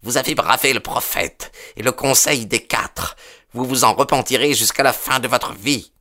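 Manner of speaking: high-pitched, indignant threat; young zealot's high-voiced fury; enraged. A narrator's reading. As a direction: warn them of doom in a high, angry voice. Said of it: "blême de rage".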